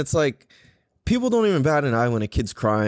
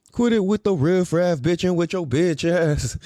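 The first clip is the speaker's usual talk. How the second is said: higher, put-on dismissive voice; mock-scolding retort; 4 semitones higher than usual. Swim teacher answering the old lady, mock-scolding. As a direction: playfully tell her off in a put-on voice.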